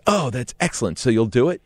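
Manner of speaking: mildly thrilled, pouncing on the yes; excited coordinator. Retold or imitated. Coordinator hearing him give in, mildly imitated excitement. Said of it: "she got really excited and goes".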